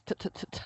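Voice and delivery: unvoiced t-t-t stutter; stuttered t sounds. Shown as a demonstration. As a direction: tap out a stuttering t. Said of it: "stuttering over my T's".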